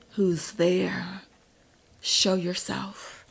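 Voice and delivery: whispered, slow and wary; hushed challenge to a hidden stranger; tense whisper. Acted. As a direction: breathe it out, sensing danger. Tense challenge in dark park.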